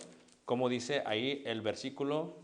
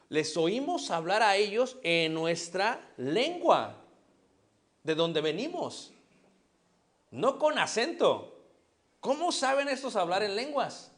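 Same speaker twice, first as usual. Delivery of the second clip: 1 amazed crowd quote; 4 semitones higher, 3 dB louder, slower than usual. Retold or imitated. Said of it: "dicen todos los varones".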